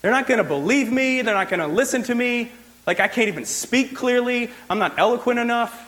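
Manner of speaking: a reluctant prophet pleading he can't speak well; whiny Moses. Retold or imitated. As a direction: make excuses like a nervous Moses. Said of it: "He's like".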